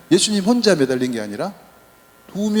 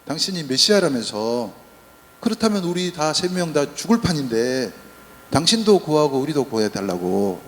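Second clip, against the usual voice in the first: sneering mockery. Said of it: "빈정대고 놀려대는 겁니다".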